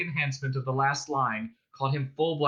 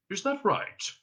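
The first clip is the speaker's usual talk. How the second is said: higher, pointed alien question; questioning Vogon; 8 semitones higher than usual. A narrator's reading. Vogon pauses to check with captives, questioning. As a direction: lift it into a testing question.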